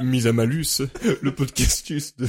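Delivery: mock-Latin show title; pompous fake-Latin announcement. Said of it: "Le premier podcast en latin". (latin pour rire)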